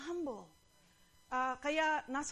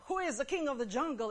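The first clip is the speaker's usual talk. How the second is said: quick, lightly voiced lion challenge; fast, mock-imperious question; demanding lion; 3 semitones higher, 4 dB louder, faster than usual. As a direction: demand it briskly as the boastful lion. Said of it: "Said to the giraffe".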